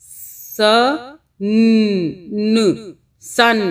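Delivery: "स" whispered, then "न", joined into "सन"; sounding out. Shown as a demonstration. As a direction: split the sounds, then blend them. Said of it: "सा की भी इसी तरह". ("स" फुसफुसाकर, फिर "सन")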